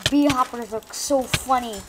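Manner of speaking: high, loud giggly delight; cracking up at the bee hoppers; laughing excitedly. Real, not acted. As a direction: burst out laughing at the sight. Laughing at funny game characters.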